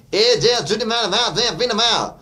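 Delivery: high nasal-placed drawled mock singer; lightly voiced singer; high, forward mock singer voice; Rocky meets a singer. Shown as a demonstration. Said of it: "Rocky meets a singer".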